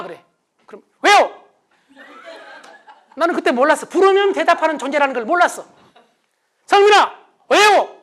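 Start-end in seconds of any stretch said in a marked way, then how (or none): 1.0-1.4 high, loud, defiant retort; loud grumpy reply; sulky shout back. Retold or imitated. Son snapping back. 6.7-7.2 high, loud yell of the son's name; shouting the name in a temper; angry yell. Retold or imitated. Father yelling son's name. 7.5-8.0 high, loud retort with a laugh; loud laughing mock reply; defiant shout. Son snapping back.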